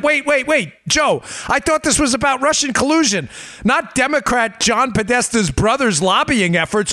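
high, mock-alarmed voice of a worried insider; mock panicked Democrat. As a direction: play a flustered politician who just got caught. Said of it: "'cause they're like".

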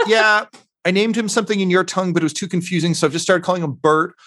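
one half of a double act; hat routine patter. Acted. Hat routine, talking to herself.

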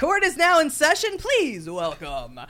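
loud, high court announcement; court announcer. Acted. Bailiff announces the judge.

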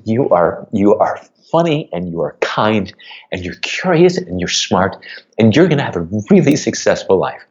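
tearful reassurance, pitch lifting on the praise; choked up while reassuring daughter. Real, not acted. Father comforting his upset daughter on a walk, choking up. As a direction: hold back tears while encouraging her. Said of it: "pardon me as I choke up".

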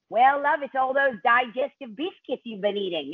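lightly voiced New Zealand accent; a half-hearted New Zealand accent; bad New Zealand accent. Wardrobe designer scolds the actress, bad New Zealand accent. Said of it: "that's a terrible New Zealand accent".

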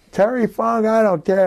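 high, mocking retort; defiant retort. Ref snapping back at Terry Funk, high mock retort. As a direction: toss it back with a mock sneer. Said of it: "Terry Funk gets up in his face and he goes".

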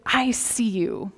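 slow, heartfelt greeting; deliberate and tender; sincere greeting. Acted. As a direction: say it slowly, letting each word land. Na'vi greeting set against casual hello.

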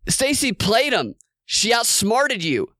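quoting Trump. Retold or imitated. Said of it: "he tells Raffensperger".

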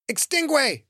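high, sharp commanding shout; shouted spell. Acted. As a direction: shout the spell to douse the fire. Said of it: "the woman shouted".

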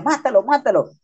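egging him on, without real volume; mock yell. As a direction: imitate onlookers urging on a fight. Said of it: "los sangres le gritaban".

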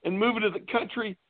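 lightly voiced Oliver Wendell Douglas, barely changed; a mild TV-farmer impression in his own voice; a hint of Oliver Wendell Douglas from Green Acres. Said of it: "my impression of Oliver Wendell Douglas".

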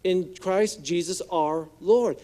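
forceful scripture reading. Acted. Preacher reading Romans to congregation, strong-hearted. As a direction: proclaim each line boldly.

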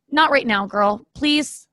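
pleading with the dog. Real, not acted. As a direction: beg the dog to stop barking. Hushing the barking dog.

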